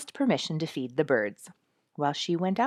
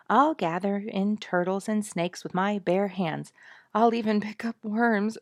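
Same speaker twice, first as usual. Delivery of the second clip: determined; 4 semitones higher, 4 dB louder than usual. Acted. Dorothy's determined boast.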